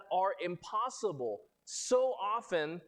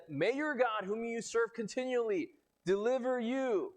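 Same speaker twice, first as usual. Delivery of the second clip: higher, earnest plea that slows at the end; heartfelt wish; 5 semitones higher than usual. Retold or imitated. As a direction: plead it like you truly mean it. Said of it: "He basically said".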